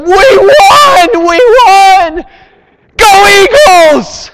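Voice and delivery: high, loud victory yell; screaming fans. Retold or imitated. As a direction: yell it like a crowd celebrating a win. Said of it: "They screamed. They yelled".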